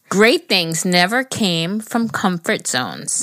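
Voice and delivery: slow, deliberate quote read. Acted. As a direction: read it like a motto. Reading quote of the day.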